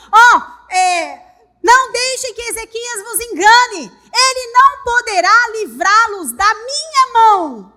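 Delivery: loud enemy shouting to the crowd; loud taunt. Acted. Enemy commander taunting the people, loud and scornful. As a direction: bellow the threat publicly. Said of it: "falaram assim".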